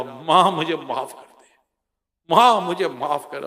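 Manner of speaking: slow, begging plea for forgiveness; pleading son. Retold or imitated. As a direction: beg your mother slowly, broken-hearted. Son begs mother at her feet.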